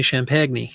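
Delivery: champagne said "sham-PAG-nee" with a hard g; cartoonish "sham-pag-nee" for champagne; Bugs Bunny champagne. Quoting Bugs Bunny to viewers, cartoon pronunciation. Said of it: "as they say on Bugs Bunny".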